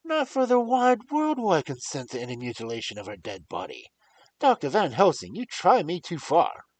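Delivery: loud, high, raging defiance; furious protest. Acted. Young lord furiously forbids the doctor to touch the grave. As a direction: rage at him with full force. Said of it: "in a storm of passion".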